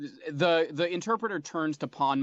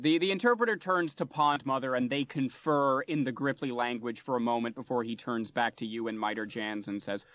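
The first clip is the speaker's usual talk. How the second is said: normal talking voice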